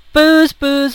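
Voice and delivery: loud call of the firemen; crying out. Acted. Firemen banging on the door, calling out. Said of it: "the firemen cried".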